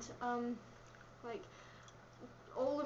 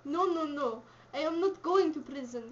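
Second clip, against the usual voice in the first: put-on firm refusal in a Russian accent; 4 dB louder than usual. Visitor refusing to go to prison, Russian accent. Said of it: "You do a Russian accent".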